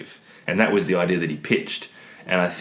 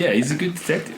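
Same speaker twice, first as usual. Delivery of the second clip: defensive; 9 semitones higher than usual. Real, not acted. Repeats defensively.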